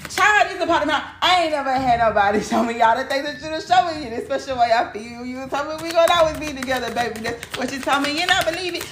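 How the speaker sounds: lightly voiced high-pitched swooning lover; a hint of a lovestruck partner; smitten lover. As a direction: gush like someone head over heels.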